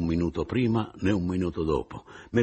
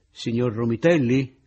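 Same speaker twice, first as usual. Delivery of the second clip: louder call across the room, pitched up; raised narrated shout; 5 semitones higher, 7 dB louder than usual. A narrator's reading. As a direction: call to a deaf old man. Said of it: "gli gridavo".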